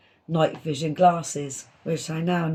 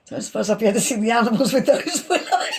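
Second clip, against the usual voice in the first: laughing; 4 semitones higher, faster than usual. Retold or imitated. Retelling her cheeky quip.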